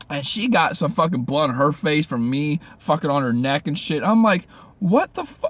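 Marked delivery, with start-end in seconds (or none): 4.8-5.5 cut-off cry, much higher; shocked outburst. Retold or imitated. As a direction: blurt it in shock, breaking off. Seeing blood in the mirror.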